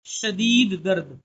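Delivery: drawn-out teacher reading, word by word; slow reading drill. Shown as a demonstration. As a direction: read it slowly so pupils can follow. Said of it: "अब ये नीचे वाले लफ्ज़ आप पढ़ सकते हैं".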